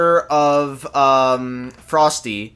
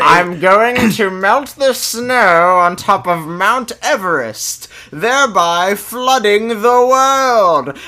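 slow villain voice; slower than usual. Retold or imitated. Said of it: "he is just like".

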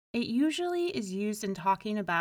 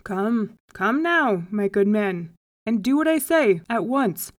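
louder, firm command; firm urging; 8 dB louder than usual. A narrator's reading. Rabbi ordering the reluctant man home, firm and insistent. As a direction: brush off the protest and insist.

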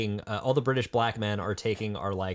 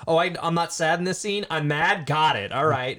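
mock-mad actor's line; lightly hammed-up annoyance; a rapper-actor's mad; 5 semitones higher, 3 dB louder than usual. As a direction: play a hint of comic anger. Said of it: "his only two emotions he can do".

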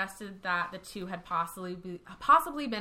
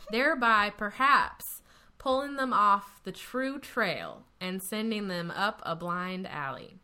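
put-on Texas accent. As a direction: read it like a born Texan. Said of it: "Should I read this in a Texas, Texas accent?".

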